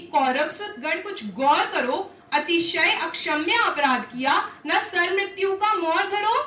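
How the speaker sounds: forceful warning climbing in pitch; stern warning. Acted. Draupadi warns the Kauravas of death, stern and rising. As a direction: warn them with mounting indignation.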